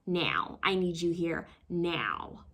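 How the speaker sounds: a light take on her deliberate delivery; Kerry Washington imitation. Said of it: "works really hard to pronounce her words".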